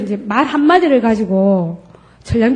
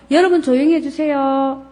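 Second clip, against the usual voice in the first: politely; 3 semitones higher than usual. Shown as a demonstration. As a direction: ask the class nicely. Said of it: "이렇게 좋게 얘기할 수 있지만".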